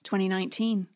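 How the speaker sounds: storyteller opening, building suspense; dramatic intro read. Acted. Host opening the podcast episode for listeners, dramatic narration. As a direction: set up the saga like a trailer.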